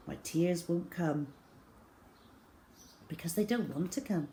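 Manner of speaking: plain reading voice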